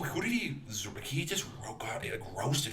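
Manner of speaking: softly whispered aside; whispering. Real, not acted. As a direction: whisper it like a secret.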